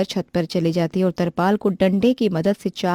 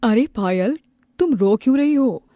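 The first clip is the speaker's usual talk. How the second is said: higher, louder worried question; concerned relative; 4 semitones higher, 4 dB louder than usual. Acted. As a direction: rush in asking why she cries. Another relative asks same question. (ऊँची चिंतित आवाज़ में सवाल)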